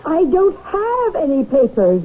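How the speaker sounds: crying as she begs; frightened woman crying under threat; tearful plea. Acted. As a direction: plead through tears with a gun on her. Pleading at gunpoint, crying.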